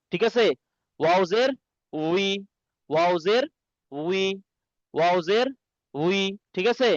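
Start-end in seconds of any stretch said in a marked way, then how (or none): 1.0-6.2 "ওয়াওজের" rising, a pause, then "উই" with a rounded w; w-glide wi. Shown as a demonstration. Teacher drilling students on the right sound, "উই" with a w glide. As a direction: split the drill, landing "উই" as wee. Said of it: "ওয়াওজের উচ্চারণ হবে ডাব্লিউ".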